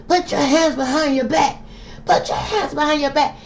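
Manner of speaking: high mock officer order; mock cop barking at a man already down; imitated police command.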